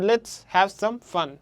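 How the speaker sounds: slow, landing on "fun"; stress on FUN. Shown as a demonstration. Teacher showing the stressed syllable, weight on "fun". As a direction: set out the words towards a stressed "fun". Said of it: "stress syllable কোনটা হচ্ছে".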